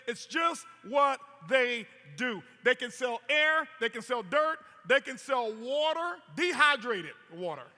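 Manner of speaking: rally the room, building up; emphatic preaching. Real, not acted.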